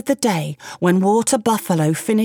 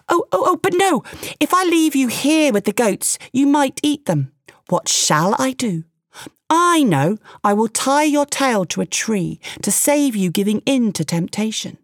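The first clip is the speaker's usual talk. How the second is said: higher, eager, fawning man's voice; a quick-talking man flattering a tiger, pitched up; frightened man; 5 semitones higher than usual. Acted. The man, scared of Tiger, fawns and plays along, higher.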